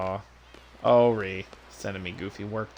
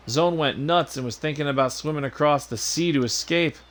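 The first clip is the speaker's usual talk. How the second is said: high-pitched, bouncy chatter; eager sidekick; 4 semitones higher than usual. Acted. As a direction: report eagerly to a superior in a high voice. Voices game character.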